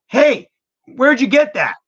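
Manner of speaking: high, loud, eager shopper voice; curious shopper. Retold or imitated. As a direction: play an excited stranger in the shop. Shoppers asking about the song.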